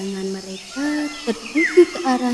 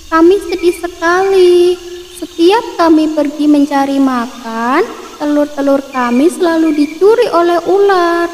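higher sparrow voice, lightly sad; sad little sparrow; 6 semitones higher than usual. Acted. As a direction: plead like a small bird.

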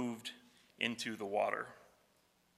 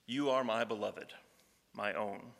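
soft voice of God; 2 semitones lower, 6 dB quieter than usual. Acted. God's voice quoted again.

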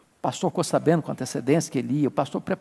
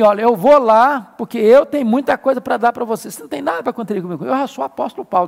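imitating a boastful apostle, louder and higher; hammed-up self-important Paul voice; mock arrogant Paul; 5 semitones higher, 5 dB louder, faster than usual. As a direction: puff it up like the big shot. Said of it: "E ele tá chegando assim".

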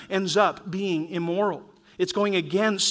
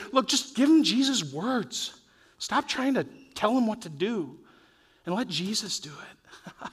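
inner conviction; 3 semitones higher than usual. Retold or imitated. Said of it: "by the Holy Spirit to say".

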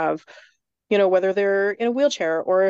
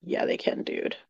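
hushed reply; 5 dB quieter, slower than usual. Retold or imitated. Casual answer to child.

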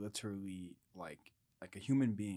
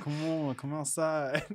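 loud, higher taunting call; mock call-out; 7 semitones higher, 9 dB louder, slower than usual. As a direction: dare him to come out, playfully. Calling the man outside.

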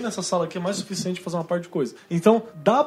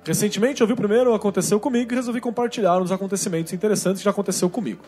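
reading a listener's letter aloud; steady storytelling read; story narration. Acted.

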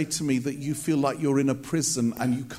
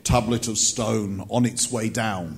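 lightly voiced mock-solemn God; Charlton Heston as God; 3 semitones lower than usual. Preacher plays God sending the tablets, mildly mock-grand voice. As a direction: proclaim it with a hint of epic grandeur. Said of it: "God always speaks like Charlton Heston".

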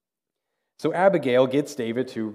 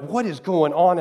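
raised, louder imitation of exasperation; mock angry yelling; 5 semitones higher, 5 dB louder than usual. Shopper yelling at the checkout machine, mock angry. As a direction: act out a shopper losing it. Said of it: "they're yelling at this machine".

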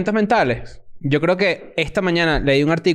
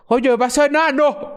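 higher-pitched, drawn-out imitation of a fan; mock fan remark; 9 semitones higher, slower than usual. Comedian imitating people who met him on tour, mock fan remark. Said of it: "Cuando la gente decía".

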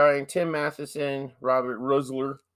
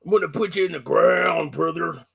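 laughing wrestler taunt; louder promo threat through laughter; 4 semitones higher, 4 dB louder than usual. Pretend.

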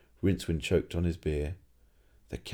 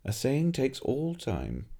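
peevish; 6 semitones higher, slower than usual. Acted. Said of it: "said the old alchemist peevishly".

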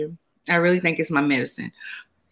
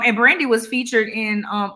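normal talking voice

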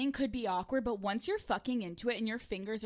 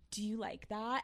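soft, teasing phone-sex murmur; hushed come-on; slow seductive question; 6 dB quieter, slower than usual. Shown as a demonstration. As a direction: ease into it quietly, coaxing. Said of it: "You just have to slowly be like".

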